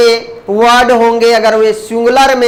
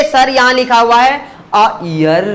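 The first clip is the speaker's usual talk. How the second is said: imitating a student. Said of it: "आप लोग बोलते".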